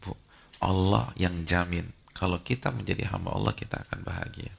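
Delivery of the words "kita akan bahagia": whispered promise; soft whispered reassurance. Real, not acted. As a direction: hush it like a secret. Closing a point to the mothers.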